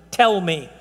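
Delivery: "Tell me" as a firm, falling command; emphatic "Tell me", set on its own; exclaimed demand. Retold or imitated. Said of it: "it's got an exclamation".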